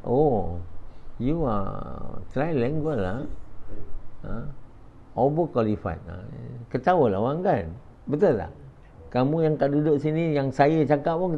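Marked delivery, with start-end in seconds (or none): 0.1-6.0 slow, mock Chinese Singaporean boss accent. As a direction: drawl it like a Chinese-Singaporean employer, lah and all.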